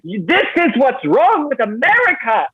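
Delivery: a lightly voiced, self-righteous commenter; mocking internet troll. Comic quoting a TikTok commenter, mock indignant. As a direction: sneer it like an online troll. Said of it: "came to my TikTok to say".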